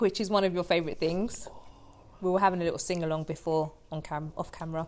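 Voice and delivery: unvoiced whisper; breathy whispered aside. Real, not acted. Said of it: "whispered aside about singing".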